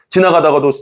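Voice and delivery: ordinary delivery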